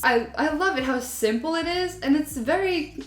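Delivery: high, bright gushing praise. Real, not acted.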